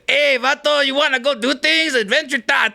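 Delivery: mock the cholo stereotype with a hammed-up voice. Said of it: "I don't talk like that".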